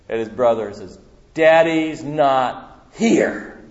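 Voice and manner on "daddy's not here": put-on slow, drawn-out kid's retort; defiant little boy. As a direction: savour each word like a cheeky child. Little boy defying brother.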